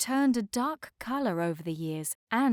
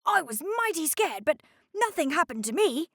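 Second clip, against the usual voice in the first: sleepy tugboat voice; 8 semitones higher, faster than usual. A narrator's reading. Harry character voice.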